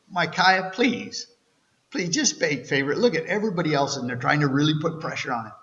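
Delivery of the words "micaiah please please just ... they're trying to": pleading. Pretend. Pleading with Micaiah.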